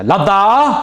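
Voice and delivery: high, loud barked order; officer orders the soldiers to load; military command. Retold or imitated. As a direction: call out like an officer to his troops. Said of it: "så säger".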